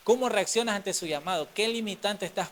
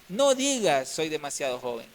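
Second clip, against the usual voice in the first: firm divine voice; 4 dB louder than usual. Acted. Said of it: "Le dice".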